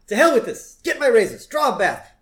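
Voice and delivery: high, loud imperious orders; mock Mr. Burns orders. Mr. Burns orders Smithers about, high and loud. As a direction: bark orders at your servant.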